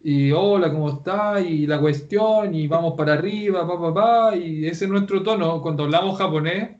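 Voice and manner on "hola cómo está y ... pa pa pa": lilting Chilean intonation; exaggerated Chilean singsong; singsong Chilean accent. Shown as a demonstration. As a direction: let each phrase swing upward, Chilean style. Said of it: "hablamos como cantadito".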